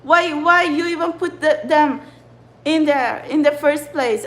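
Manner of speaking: real fed-up venting; bitching. Real, not acted. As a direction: demand answers, exasperated. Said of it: "bitching like this".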